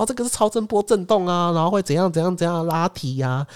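high pitch, selling the gadget; mock salesman explaining the massager; sales demo voice. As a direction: mimic a product pitch. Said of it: "我说".

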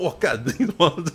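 high, startled exclamation; recalling her shock at the kick, mock startled. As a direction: act out being startled. Her own reaction to the kick.

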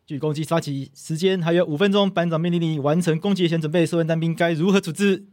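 drill command. Shown as a demonstration. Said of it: "我们可以来一小段就好。".

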